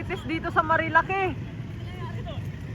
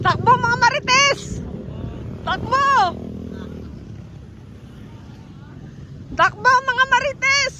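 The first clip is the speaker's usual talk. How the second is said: teasing shout; 4 semitones higher than usual. Real, not acted. Shouting at gossipers to run.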